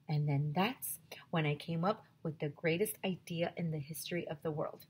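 put-on lively reading to children; read-aloud story narration. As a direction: tell the story to kids. Reading novel to class.

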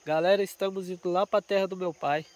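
blocked nose, talking through congestion; nose stuffed up from a cold; stuffy nose. Real, not acted. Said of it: "meu nariz tá entupido".

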